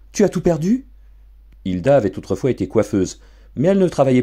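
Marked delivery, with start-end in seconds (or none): 0.1-0.9 wife's shocked question. Acted. Shocked wife asks.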